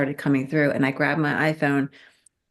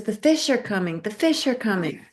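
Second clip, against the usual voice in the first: raised, insistent heads-up, retold; urgent announcement; 5 semitones higher than usual. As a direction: imitate someone announcing an arrival with urgency. Dream figure warns fish are coming.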